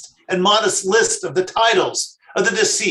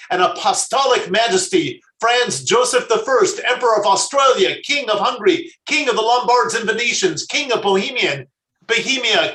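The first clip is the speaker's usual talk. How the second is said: every syllable stressed, slightly raised and louder; loud and distinct; 3 semitones higher than usual. Acted. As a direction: proclaim each title syllable by syllable like a herald. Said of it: "answered loudly and distinctly, stressing each syllable".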